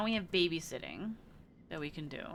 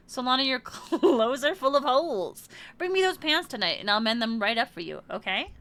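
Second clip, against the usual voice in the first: character voice; 5 semitones higher, 4 dB louder than usual. Acted. Reading a character's caring dialogue.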